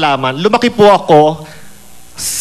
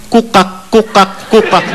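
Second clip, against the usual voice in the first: a higher, clipped-off croaking of kukak; Bisaya frog croak; 3 semitones higher, slower than usual. Pretend. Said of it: "Sabi ng palaka". (kumokak na palakang Bisaya)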